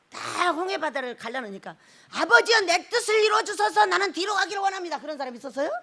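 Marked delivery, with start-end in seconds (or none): 2.1-5.0 lightly acted plea, raised pitch; mock earnest prayer. One man praying at the Red Sea, mock earnest. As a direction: pray aloud, higher and pressing, as an imitation.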